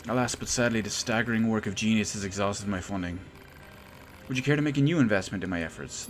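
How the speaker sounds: lightly theatrical regret turning into a plea; lamenting inventor. Acted. Inventor regrets, begs funds.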